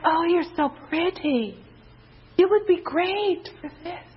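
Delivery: high, sugary-sweet mock Southern Belle. Preacher mimicking Satan as a flattering Southern Belle. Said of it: "I like call the Southern Belle voice".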